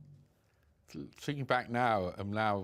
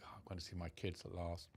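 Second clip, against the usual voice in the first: breathless whisper of hope; whispered hopeful thought; 2 semitones lower, 12 dB quieter than usual. Retold or imitated.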